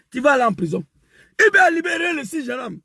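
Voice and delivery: crying through the words, pitch lifted; pushing on while tears catch the voice; voice breaking. Real, not acted. Activist grieving over Burkinabé arrests, voice cracking with tears. Emotional rant about Abidjan arrests.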